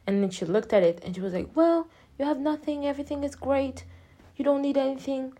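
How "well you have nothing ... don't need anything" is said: higher, softer dentist voice; imitated reassurance. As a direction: lightly play the reassuring dentist.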